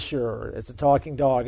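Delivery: low, dismissive mock agreement; skeptical, dropped-down "yeah, right" tone; sarcastic. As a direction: humor him with eye-rolling disbelief. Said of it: "rolls his eyes and says".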